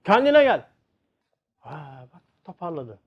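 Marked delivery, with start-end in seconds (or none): 0.0-0.7 "Kendine gel" called higher and louder, stress on "kendine"; stronger wake-up call. Retold or imitated. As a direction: push "Kendine gel" up harder, like a second shake. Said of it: "Ne oldu?". ("Kendine gel" daha tiz ve güçlü seslenilir)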